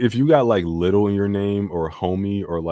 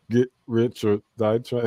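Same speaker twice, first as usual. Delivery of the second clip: slow mock rapper line; 5 semitones higher than usual. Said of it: "he was like".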